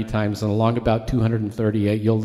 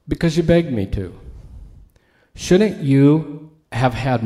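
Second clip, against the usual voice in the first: stern rebuke; 4 dB louder than usual. Acted. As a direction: lay into the servant he forgave. Master rebukes the wicked servant.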